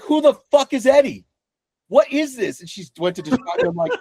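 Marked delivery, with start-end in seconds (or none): 0.0-2.6 very high, incredulous mock cry; exasperated dad demanding who Eddie is; baffled outburst.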